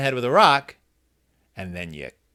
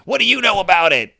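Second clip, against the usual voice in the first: put-on dismissive bully voice; a lightly voiced dismissive jerk; mock jerk voice; 5 semitones higher, 4 dB louder than usual. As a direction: sneer it like a cartoon jerk. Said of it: "He didn't actually talk like that".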